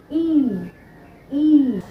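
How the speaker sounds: E said as a short "eh" sound. Shown as a demonstration. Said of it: "You can say".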